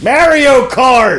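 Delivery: high, slow, hammed-up cry of Mario Kart; squeaky stretched hype call; excited announcer yell. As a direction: belt the title like a game show host. Announcing game night excitedly.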